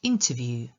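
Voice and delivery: "interview" stressed on IN, long oo at the end; first-syllable stress. Shown as a demonstration. Teacher showing learners how to pronounce "interview", stressed on the first syllable. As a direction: hit the first syllable of "interview", draw out the final U. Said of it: "akcent na pierwszą sylabę".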